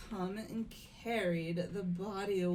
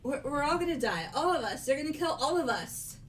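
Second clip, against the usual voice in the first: fast, high and loud terror; hysterical panic; 6 semitones higher, 5 dB louder, much faster than usual. Acted. Hina losing it about the killer coming for everyone, fast and terrified. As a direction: gabble it out in blind terror. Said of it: "Hina, calm down".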